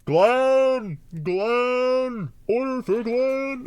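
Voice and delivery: high, loud counter call; calling out an order. Retold or imitated. Chipotle worker calling a pickup name. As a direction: sing out the name across the restaurant.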